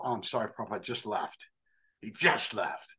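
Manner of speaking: quick soft brush-off, Prabhupada just left; dropped low and quiet, a hurried apology; offhand apology. Retold or imitated. Temple person brushing off the seeker, quick and soft.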